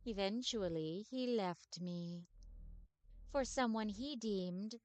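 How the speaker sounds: slow, soft, mournful undead lady; wistful ghostly vampire telling her sad past. Acted. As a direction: sigh it out like a weary centuries-old vampire. Voices the vampire ghost Agatha.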